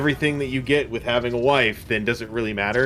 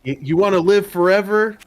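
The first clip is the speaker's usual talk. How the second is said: shouted movie line; 9 semitones higher, 7 dB louder than usual. Retold or imitated. Quoting the movie battle line.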